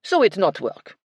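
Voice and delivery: high, loud, breezy French chef; French accent shrug. A narrator's reading. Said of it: "with an expansive shrug".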